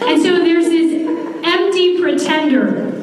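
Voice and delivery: "empty" lifted and leaned on; stress on empty. Shown as a demonstration. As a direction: hit the word "empty" hard. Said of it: "let me emphasize the word empty".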